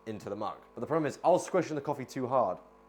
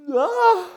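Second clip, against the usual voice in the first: sneeze; 11 dB louder than usual. Real, not acted. Sneeze after goodbye.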